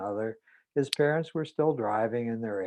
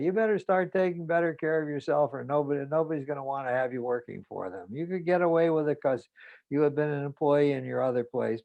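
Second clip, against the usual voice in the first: nagging mother; 3 semitones higher than usual. Retold or imitated. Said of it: "she's been scolding me".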